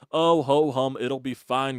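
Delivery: a hint of a breezy ho-hum coach; lightly mocking a calm manager's shrug; mock even-keeled manager. Mocking the Phillies manager Rob, mild breezy ho-hum voice. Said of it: "the even-keeled, ... guy".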